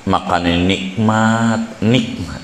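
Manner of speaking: "nikmat" said with a plain Indonesian k, no Arabic ain; slow, mock-local "nikmat" with a hard k ending. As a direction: imitate how Indonesians say "nikmat" with a k sound. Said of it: "orang Indonesia nggak bisa ngomong nikmah".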